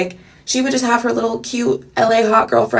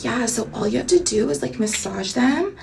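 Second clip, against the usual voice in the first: Dakota's soft voice; 3 semitones higher, 6 dB quieter than usual. Retold or imitated. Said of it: "that's how she talks".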